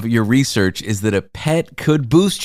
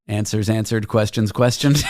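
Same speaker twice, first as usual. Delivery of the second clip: laughing; 2 semitones lower than usual. Shown as a demonstration. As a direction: chuckle the words out. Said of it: "That might be my new tagline".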